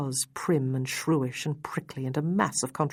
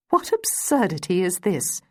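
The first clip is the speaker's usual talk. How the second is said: crying out; 3 semitones higher, 4 dB louder than usual. A narrator's reading. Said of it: "she cried".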